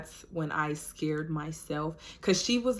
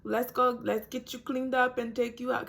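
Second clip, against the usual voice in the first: nurse voice; 6 semitones higher than usual. Retold or imitated. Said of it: "everybody down there spoke Spanish".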